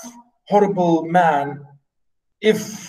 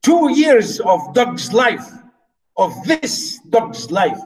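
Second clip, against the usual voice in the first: slow bitter complaint; 3 semitones higher, slower than usual. Shown as a demonstration. Teacher voicing the fed-up steward, slow and bitter. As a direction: drag it out slowly, bitter and fed up. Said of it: "I like this, the way he said it".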